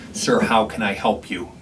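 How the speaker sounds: slow, cold and unwelcoming "Sir, how can I help you?"; glaring. Shown as a demonstration. Staff member glaring at a homeless patron, slow cold tone. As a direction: say it like you resent them being here. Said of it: "you don't wanna glare at someone".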